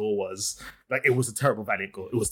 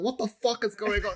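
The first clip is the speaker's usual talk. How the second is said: retold disbelief; 8 semitones higher than usual. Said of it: "I was like".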